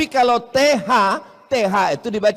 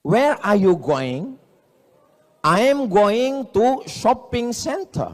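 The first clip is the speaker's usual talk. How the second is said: English demo; slower than usual. Shown as a demonstration. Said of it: "bahasa Inggris nggak pakai makhorijul huruf".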